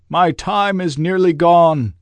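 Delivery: a tormented spirit confessing; Marley's ghost reproaching himself; grieving ghost. A narrator's reading. Ghost urgent, slower.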